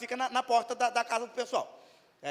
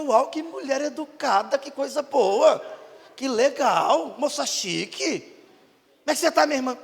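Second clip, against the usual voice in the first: slow, louder, gushing praise; mock flattery; 2 semitones higher, 4 dB louder, slower than usual. Pastor gushing over a polite church lady, slow. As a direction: lay it on thick, drawn out.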